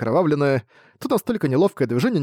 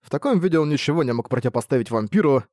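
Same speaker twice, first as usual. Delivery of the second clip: plain reading voice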